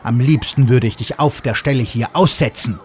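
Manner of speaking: put-on a hurt child telling off her friend; offended scolding. Sarah scolding Fluguri, hammed-up offended rant. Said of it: "schimpft Sarah beleidigt".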